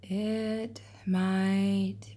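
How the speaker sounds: very slow, odd turtle voice; turtle snapping. Acted. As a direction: drag each word out like a turtle. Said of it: "snapped one of the turtles".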